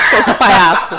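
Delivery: loud laughing scold; calling them clowns through laughter. Real, not acted. Laughing at the pun.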